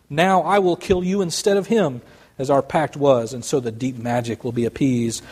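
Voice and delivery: reading a story aloud to the congregation; measured storyteller read, letting the scene unfold; story narration. A narrator's reading. Pastor reads Aslan's death to the congregation, storyteller voice.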